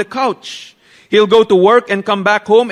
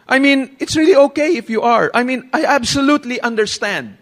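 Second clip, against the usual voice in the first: insistent wife; 4 semitones higher than usual. Retold or imitated.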